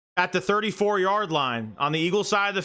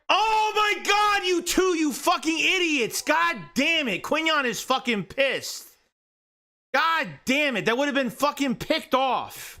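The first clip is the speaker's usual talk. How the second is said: furious shout; 10 semitones higher than usual. Real, not acted. Fan furious at bad throw.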